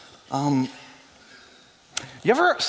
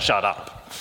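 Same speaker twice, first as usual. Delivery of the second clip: disbelieving shut up; 7 semitones lower than usual. Retold or imitated. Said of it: "I probably said".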